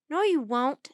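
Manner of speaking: loud, firm refusal; defiant. A narrator's reading. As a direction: stand up to the bullies loudly. Child defies villains in story.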